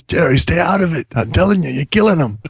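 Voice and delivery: high-pitched mock plea; hammed-up begging to a team owner; mock pleading.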